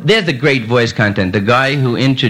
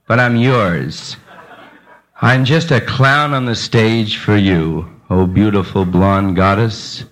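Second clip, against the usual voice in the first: mock romantic plea; 3 semitones lower, slower than usual.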